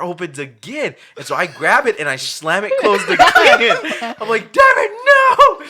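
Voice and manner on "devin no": high, loud, drawn-out mock shout; yelled command. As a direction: shout him down in a hammed-up retelling. Retells stopping Devin at the door.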